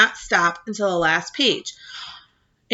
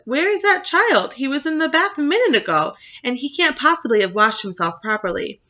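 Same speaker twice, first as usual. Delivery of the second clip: mommy's voice; 5 semitones higher than usual. Retold or imitated. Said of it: "my mommy comes in and says".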